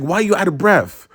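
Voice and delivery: high, rapid-fire mock-mom grilling; accusing mom. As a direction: imitate a mother pouncing with accusations. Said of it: "And she was like".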